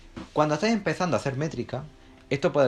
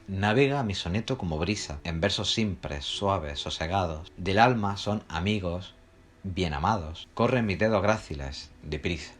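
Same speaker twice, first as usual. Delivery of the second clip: lightly measured verse reading, a little subdued; understated reading of a verse; poem recitation; 4 semitones lower than usual. Shown as a demonstration. Recites a poem stanza as example.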